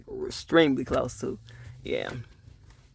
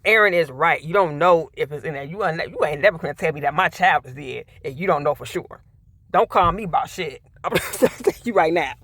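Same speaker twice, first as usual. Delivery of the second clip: louder, heated mother's warning; 3 dB louder than usual. Pretend. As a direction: warn them like an angry mother. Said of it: "I'm like".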